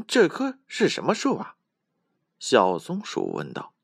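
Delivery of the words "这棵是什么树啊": high squeaky little squirrel. Acted. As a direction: ask in a tiny high squirrel voice.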